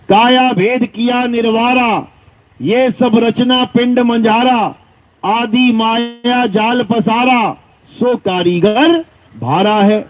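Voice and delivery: slow, declaimed devotional verse; deliberate scriptural recital; verse recitation. Acted. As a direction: stretch each line of the hymn evenly.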